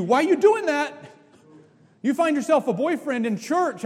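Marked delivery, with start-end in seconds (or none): 0.0-0.9 stern pastor question. Retold or imitated. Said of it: "I'm gonna ask you".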